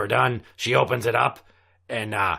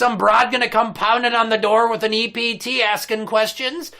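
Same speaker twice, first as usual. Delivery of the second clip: ranting pirate captain; 4 semitones higher than usual. Acted. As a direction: rant like an outraged old captain. Continues captain rant.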